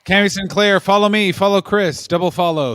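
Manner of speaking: loud shout-out. Real, not acted. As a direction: call out each follow like a plug. Shout-out plugging a follower.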